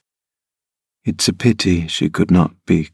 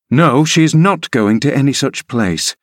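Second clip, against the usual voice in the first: a raised, higher protest; cried out; 5 semitones higher than usual. Acted. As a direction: cry out to stop her. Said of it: "I cried".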